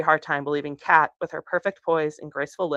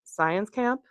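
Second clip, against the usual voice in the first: dryly; 4 semitones higher than usual. Acted. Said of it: "Milo repeated dryly".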